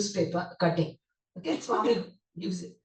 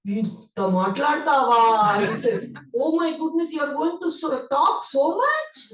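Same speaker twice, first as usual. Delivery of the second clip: mock amazement; 4 semitones higher, 4 dB louder than usual. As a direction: stretch it out in teasing disbelief. Swami amazed at long speech.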